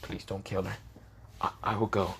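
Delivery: soft, subdued, faltering surrender; quiet plea. A narrator's reading. Girl begs for her friend's life, quietly. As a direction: drop the voice and give in meekly. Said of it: "she kinda quietly shaked her head and said".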